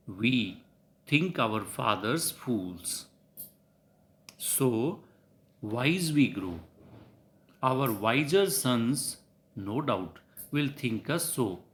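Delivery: slow, phrase by phrase with pauses; deliberate, spaced-out reading of verse; measured verse recitation. Shown as a demonstration. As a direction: recite the couplet slowly so the syllables can be counted. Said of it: "make you count ten syllables".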